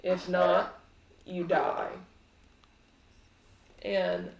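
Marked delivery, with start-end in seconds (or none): 0.0-1.9 slow, loud, mocking villain voice; taunting villain. Azalin taunts the party, slow and loud. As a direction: taunt them like a game. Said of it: "Azalin laughs and says".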